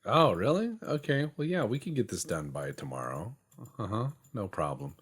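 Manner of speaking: high, chirpy fake agreeableness; mock eager yes-man. Mocking contractors who promise everything by tomorrow. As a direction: play the overly agreeable contractor. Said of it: "people are like".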